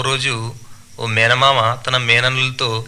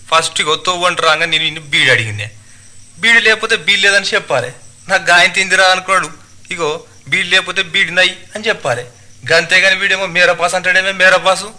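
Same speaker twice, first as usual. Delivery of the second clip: higher, complaining dialect voice; aggrieved tailor; 5 semitones higher than usual. Acted. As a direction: argue your case to a bystander. (ఫిర్యాదు చేసే దర్జీ, గట్టిగా యాసలో)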